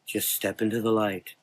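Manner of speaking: soft, gentle coaxing. Acted. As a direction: coax him softly like a father. Dark man coaxing.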